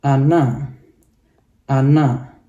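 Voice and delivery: ana, stress on the first A; Russian word demo. Shown as a demonstration. Teacher demonstrating ana to students, stressed first A. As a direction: say ana with the rise on the first syllable. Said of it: "naiknya di A".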